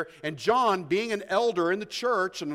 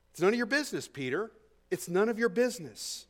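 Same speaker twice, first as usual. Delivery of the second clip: firm Jesus; 3 semitones higher than usual. Acted. Jesus voiced rebuking Peter.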